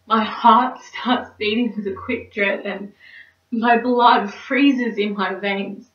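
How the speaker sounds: lightly dramatised woman facing her ordeal; mock-tragic dread. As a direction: deliver a theatrical confession of dread. Performs Cynthia's monologue of dread.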